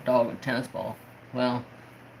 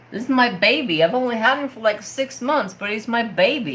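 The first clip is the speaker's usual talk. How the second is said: high, wailing imitation of tearful pleading; mock bawling; 7 semitones higher than usual. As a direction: act out bawling your eyes out, much higher. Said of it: "I'm bawling my eyes out".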